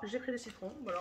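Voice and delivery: "j'ai pris des citrons" said quietly, half to herself; puzzled aside. Real, not acted. Puzzled repeat of her own line.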